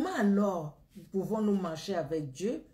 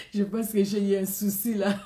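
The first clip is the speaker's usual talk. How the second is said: laughing; 5 dB louder than usual. Real, not acted. Laughs at a glitch.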